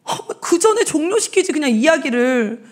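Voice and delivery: ordinary delivery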